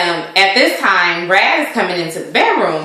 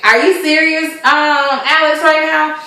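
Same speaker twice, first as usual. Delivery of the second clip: disbelief; 6 semitones higher, slower than usual. Retold or imitated. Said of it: "thoroughly confused".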